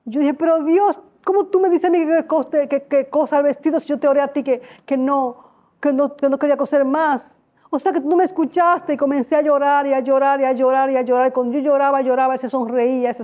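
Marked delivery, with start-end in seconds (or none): 0.3-8.9 tearful protest. Retold or imitated. Protesting in tears to God.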